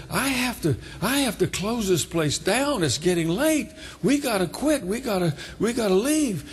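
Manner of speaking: a hint of a harried caretaker urging everyone out; urgent sexton. Sexton telling the praying group it is late, mildly urgent.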